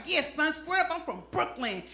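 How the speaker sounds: mock old-school Brooklyn toughness; trying to sound hard. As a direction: play it hard, without raising the voice. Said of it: "trying to sound hard".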